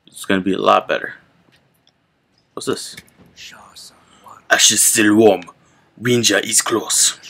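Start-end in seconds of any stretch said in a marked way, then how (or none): 4.5-7.2 whispering. Acted. Reading game text aloud.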